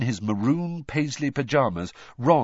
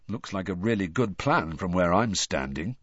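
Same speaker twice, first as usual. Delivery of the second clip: bleakly; 4 semitones lower than usual. Acted. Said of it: "said Harry bleakly".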